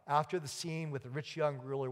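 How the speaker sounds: normal talking voice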